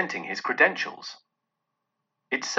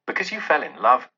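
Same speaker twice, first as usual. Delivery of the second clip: growled. Acted. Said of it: "growled Scrooge".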